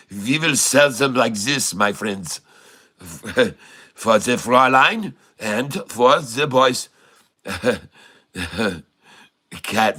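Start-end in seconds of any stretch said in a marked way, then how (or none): 0.1-6.9 mock Norwegian accent pitching to friends; a hint of German with Fräulein; jokey Norwegian sales pitch. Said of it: "when I talk like this".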